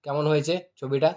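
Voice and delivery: loud frustrated pleading; exasperated loud. Real, not acted. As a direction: shout it out, fed up. Frustrated editor shouting at viewers.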